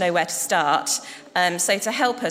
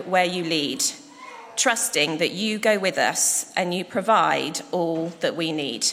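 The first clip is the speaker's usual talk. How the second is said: prayer. Acted. Minister leading the congregation in prayer, solemn and measured. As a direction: pray it earnestly for the people.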